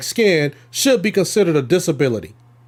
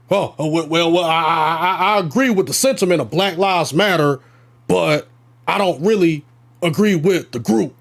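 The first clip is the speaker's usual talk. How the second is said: stammering, hedging imitation, a little lower; mock hesitant Christian; 3 semitones lower than usual. Mocking Christians who lock arms with it, stammering mock hesitance. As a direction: mimic someone waffling their way through an excuse.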